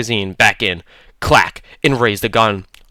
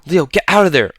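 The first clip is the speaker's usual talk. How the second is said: high, urgent shriek of warning; 7 semitones higher, 3 dB louder than usual. A narrator's reading. Athena shrieking at Leo to leave the truck. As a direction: shriek at him to get out. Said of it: "Athena shrieked".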